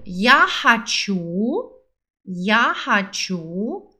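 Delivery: very slow, syllable by syllable; very slow model. Shown as a demonstration. Teacher models the phrase for repeating, very slowly. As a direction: drag each sound out for the learner. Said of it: "Eu quero".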